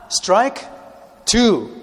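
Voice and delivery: high, loud umpire call. Acted. Preacher calling strike two, high and loud. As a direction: shout the count like an umpire. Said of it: "preacher calling out a count".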